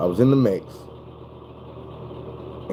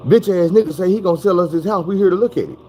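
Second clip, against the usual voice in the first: hint of buyer voice; 9 semitones higher than usual.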